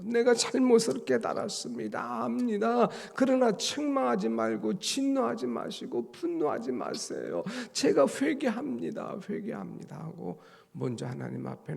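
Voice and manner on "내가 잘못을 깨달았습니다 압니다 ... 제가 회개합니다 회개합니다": high, urgent begging that sinks to a hush; repentant plea. Retold or imitated. Preacher voices David confessing to God, rising plea then hushed. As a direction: confess and plead, ending in a breath. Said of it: "잘못을 인정하고".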